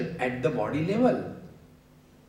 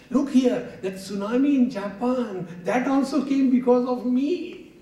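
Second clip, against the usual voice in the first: louder, higher self-blaming cry; mock anguished outburst; 10 semitones higher, 5 dB louder than usual. Shown as a demonstration. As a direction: wail the blame on yourself. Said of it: "talking like a solo loki".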